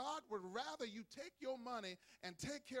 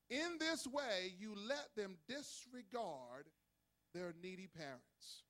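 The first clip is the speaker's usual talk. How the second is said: very slow, deliberate verse reading; emphatic scripture reading; 4 dB louder, much slower than usual. Acted. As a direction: declaim the verse word by word. Reads verse to congregation.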